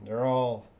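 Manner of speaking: usual speaking voice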